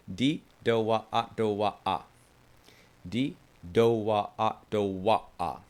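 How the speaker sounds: rhythmic didgeridoo syllables with accents; demo rhythm syllables. Shown as a demonstration. Teacher demonstrating the rhythm, chanted syllables. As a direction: chant the beat pattern evenly. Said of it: "That's where the accent is".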